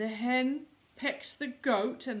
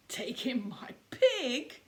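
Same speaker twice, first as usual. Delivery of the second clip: doubtful whisper. Acted. Old lady doubts the plan.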